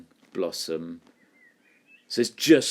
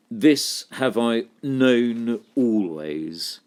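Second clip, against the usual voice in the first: confident; 2 semitones higher, 3 dB louder, much slower than usual. Shown as a demonstration. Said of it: "she sounds really, really confident".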